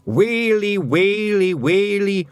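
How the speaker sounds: high, loud slow lament; Feegles shout. A narrator's reading. Feegles shout in despair, loud and high. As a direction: wail to the heavens.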